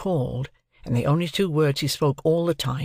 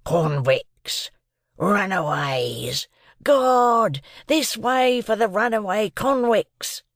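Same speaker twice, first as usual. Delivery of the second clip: shouting for help; 7 semitones higher, much slower than usual. A narrator's reading. Second voice on the marsh calling soldiers, building shout. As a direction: drag out the call, then burst out. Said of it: "and another voice".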